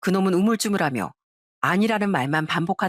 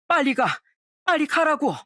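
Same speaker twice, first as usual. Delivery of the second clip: higher-pitched, mildly angry urging; understated angry insistence; angry order; 8 semitones higher than usual. A narrator's reading. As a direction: order them away, voice pitched up. Husband angrily ordering ex-wife away.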